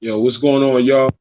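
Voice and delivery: audio cutting out; choppy broken connection; corrupted glitchy audio. Real, not acted. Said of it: "They audio's cutting out".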